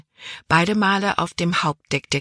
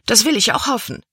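haughty; 6 semitones higher, faster than usual. Acted. Libby haughtily accepts the cabin boy's forced apology. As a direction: look down your nose at him.

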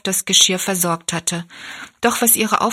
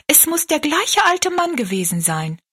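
put-on high, eager girl's voice; excited exclamation; 8 semitones higher than usual. A narrator's reading. Rosalie to the woman about her picture, exclaiming eagerly. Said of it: "rief Rosalie".

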